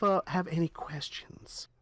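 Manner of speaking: slow unvoiced whisper; whispered question. The speaker asking the party, whispered. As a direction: breathe the question out.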